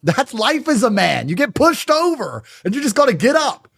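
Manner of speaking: a hint of a stern father, slow and high; lightly voiced father explaining life to the mother; father's voice. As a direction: slowly lay down a father's rule. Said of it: "And he'd say".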